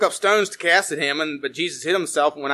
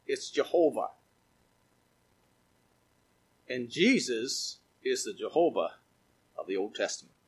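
much softer and lower, reverent; hushed revelation; 5 semitones lower, 9 dB quieter than usual. Real, not acted. Preacher quietly revealing Jehovah to the church, hushed. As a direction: drop the voice, let it sink in.

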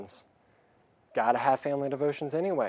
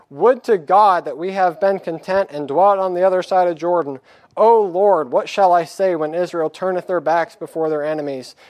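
put-on loud, raised, declaiming the old text; fervent scripture reading; 3 semitones higher, 6 dB louder than usual. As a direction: read it like a preacher at full force. Reads scripture aloud with force.

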